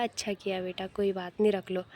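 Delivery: put-on gently indulge the child with a smile; loving smile. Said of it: "प्यार से मुस्कुरा के बोला".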